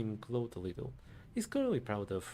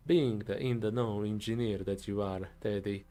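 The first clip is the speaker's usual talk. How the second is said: put-on Italian accent. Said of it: "my best impression of an Italian accent".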